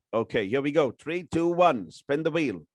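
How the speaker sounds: excited countdown, building up; hyped giveaway announcement. Real, not acted. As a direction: announce the draw like a game show host. Countdown spinning the giveaway wheel.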